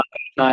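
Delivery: "कृष्णा" with a long final aa; anglicised final vowel. Retold or imitated. Teacher imitating speakers misled by English spelling, "कृष्णा" with long final aa. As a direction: end "कृष्णा" on a full aa. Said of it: "ऐसा बोलने लग जाता है".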